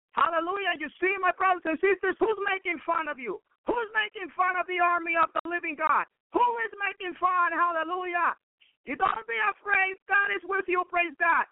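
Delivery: fervent sermon exhortation; preaching. Acted. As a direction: lift it up and urge the flock not to fear.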